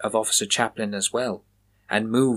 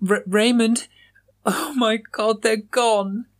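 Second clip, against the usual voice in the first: calling out; 11 semitones higher, slower than usual. A narrator's reading. Moira calling out for her missing friends, high and panicked. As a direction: call out into the dark, high and frightened. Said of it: "Calling out".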